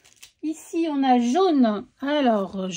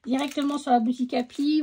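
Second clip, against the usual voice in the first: repeated faster for emphasis; quick repeat; 3 dB quieter, faster than usual. Shown as a demonstration. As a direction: say it again quickly to insist. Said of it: "je le répète". (répété plus vite pour insister)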